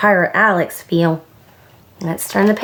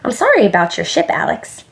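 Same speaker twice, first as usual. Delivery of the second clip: put-on quick, higher, kindly child's offer; 7 semitones higher, faster than usual. A narrator's reading. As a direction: offer help gently, pitch lifting. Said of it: "she asked kindly".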